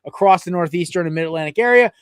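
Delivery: upbeat podcast announcer delivery; sponsor read and intro. Real, not acted. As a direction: read the sponsor, then present the guest.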